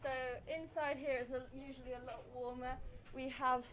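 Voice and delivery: talking through a face mask; muffled voice behind a mask. Real, not acted. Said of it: "I'm gonna have to wear my face mask".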